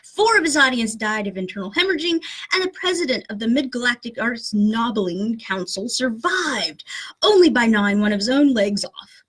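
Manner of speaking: emphatic amateur British narration; British accent. Acted. Host reading the gruesome punchline, British accent. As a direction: read it dramatically in a put-on British accent. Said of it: "horrible British accent".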